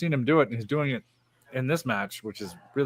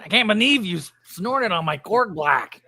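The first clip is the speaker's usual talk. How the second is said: alien character voice; 6 semitones higher, 4 dB louder than usual. Retold or imitated. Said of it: "the alien one".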